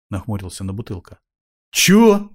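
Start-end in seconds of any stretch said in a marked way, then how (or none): 1.7-2.3 sharp indignant high bark. A narrator's reading. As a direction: snap back outraged. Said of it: "возмутился старик".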